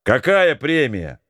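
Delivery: slow, puzzled question from afar; ask, baffled. Acted. Marat asking from the corridor, puzzled. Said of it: "недоумевающий голос Марата".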